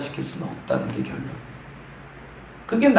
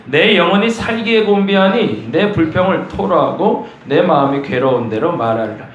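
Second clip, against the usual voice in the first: scripture reading; 3 dB louder than usual. Shown as a demonstration. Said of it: "시작".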